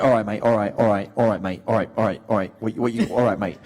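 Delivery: imitating a Welsh accent; Joseph. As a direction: muddle through in a Welsh accent. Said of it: "he's Welsh".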